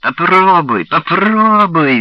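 high, loud, rising rat shriek; shrill rat squeal. Acted. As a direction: screech it, closing in. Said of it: "визжал крысиный пронзительный голос Хустона".

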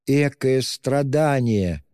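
high, slow, pained cry; tormented wail. A narrator's reading. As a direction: let it tear out of her. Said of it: "вырвался мучительный вопль у Сони".

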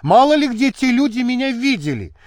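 voiced indignant shout; shouting protest. A narrator's reading. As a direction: cry out in protest at the officers. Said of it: "закричала Анюта".

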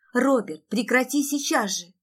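high, loud command; sharp shouted order. Acted. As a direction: cry out to make your brother stop. Sister orders brother to stop.

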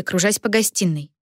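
ordinary delivery

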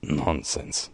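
low, soft, dismissive mutter. A narrator's reading. Commissioner dismissing Rybka's theory, muttered. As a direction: mutter it off dismissively under your breath. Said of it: "mruknął komisarz".

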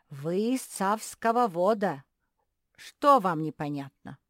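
loud lecturing professor with r and l swapped for v; speech-impaired professor. A narrator's reading. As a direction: play the muddled academic, v for every r and l. Professor character lectures, speech defect.

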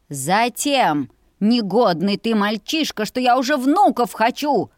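growing to a loud exasperated cry; loud mother. Acted. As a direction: scold him loudly from the kitchen. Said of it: "Громко раздалось".

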